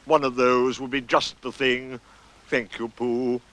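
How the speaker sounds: slow, lightly voiced donkey; mildly ponderous reply; Eeyore. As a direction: answer slowly, with a touch of gloom. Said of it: "said Eeyore".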